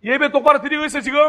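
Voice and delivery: loud, stern grilling; mock-scary interrogation of a sinner; stern interrogating Jesus. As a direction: fire the questions like a strict judge. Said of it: "이렇게 하시는 분이 아니셨잖아요".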